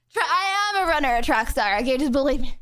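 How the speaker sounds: panting, breathless after running; words squeezed between breaths. Real, not acted. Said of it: "Even though I'm out of breath".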